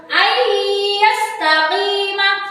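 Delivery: very slow Ayyastaqima, doubled y held nasally; merged nun recitation. Shown as a demonstration. Teacher shows nun into ya, slow humming chant. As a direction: chant Ayyastaqima slowly, long hummed y at the start. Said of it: "Seperti itu".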